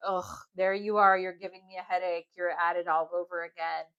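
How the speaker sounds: imitating a fed-up partner, loud groaned ugh, then quick complaint; mock exasperation, rattled off after a heavy ugh; put-upon partner's weary griping; exasperated partner.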